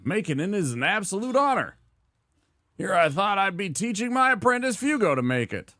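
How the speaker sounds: hint of a fed-up village blacksmith; grumpy smithy. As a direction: play the cranky smith complaining about his apprentice. Same smithy NPC continues.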